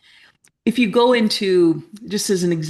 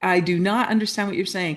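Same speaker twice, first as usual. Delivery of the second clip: mock bewildered; faster than usual. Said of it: "sounded like rainbow hearts and unicorn farts".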